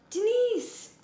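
loud high yell for her friend. Acted. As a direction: call out from inside the box. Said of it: "She yelled".

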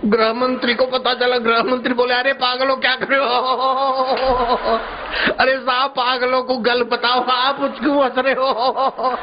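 high voice breaking into giggles; laughing while talking. Acted. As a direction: officials who can't stop laughing. Officials questioning each other, all laughing.

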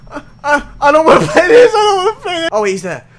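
high, loud, whimpering cry; tearful panic. Real, not acted. Player begging out of the horror game, tearful panic. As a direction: wail it in panic, near tears. Panicking after the jump scare.

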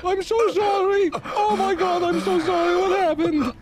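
freaking out. Acted. Panicking while dragging the wounded friend to the car. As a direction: panic as you rush him to the hospital. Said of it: "I'm freaking out".

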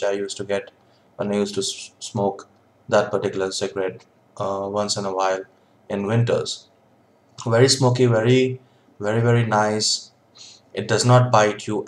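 lips around pipe stem; words around a pipe; talking with pipe in mouth. Real, not acted. Seen 3: Pipe stem held between lips throughout the labelled words.

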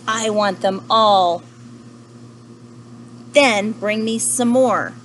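loud, slow, drawn-out whale voice; demanding whale. Acted. Whale demands all the donuts from panda, loud and slow. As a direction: boom the demand slowly like a huge whale.

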